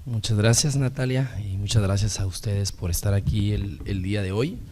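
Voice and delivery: raspy, worn-out sick voice; hoarse voice. Real, not acted. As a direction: speak hoarsely, voice strained by illness. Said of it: "una disculpa por esta voz de ultratumba".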